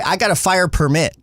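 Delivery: permit stressed late, per-MIT; back-home permit. Retold or imitated. Imitating people back home, permit as per-MIT. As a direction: lean on the second syllable of permit. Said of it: "They say".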